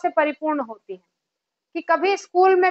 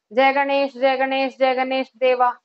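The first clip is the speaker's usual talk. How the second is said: lower, rhythmic spoken aarti; aarti recitation; 4 semitones lower than usual. Shown as a demonstration. Teacher reciting an aarti to show pauses, even rhythmic recitation. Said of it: "जैसे आरती करते हैं".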